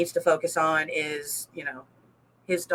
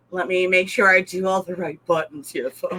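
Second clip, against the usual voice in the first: posh voice; 2 semitones lower than usual. Pretend. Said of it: "That's my posh voice".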